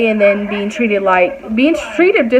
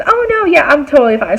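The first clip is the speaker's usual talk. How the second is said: breezy denial; 4 semitones higher than usual. Retold or imitated. Coworker's breezy denial acted out.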